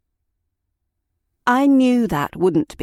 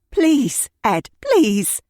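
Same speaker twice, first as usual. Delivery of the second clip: loud, much higher desperate plea; weeping plea; 8 semitones higher, 4 dB louder, much slower than usual. Acted. Beaten woman begging Ed to stop, tearful plea. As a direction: beg him through tears. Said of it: "I wept".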